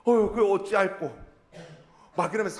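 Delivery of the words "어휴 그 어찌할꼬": acted dismay. 회개하는 사람들의 탄식 연기.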